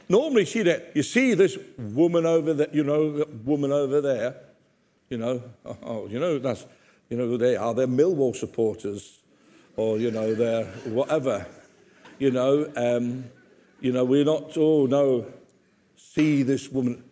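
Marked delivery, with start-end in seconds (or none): 0.9-15.3 lower, sneering "you know who they are" voice; mock gossiping tone. Shown as a demonstration. Preacher mocking how people point someone out, sneering. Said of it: "Jesus didn't say it like this". 16.0-17.0 slow sneering aside. Shown as a demonstration. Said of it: "Jesus didn't say it like this".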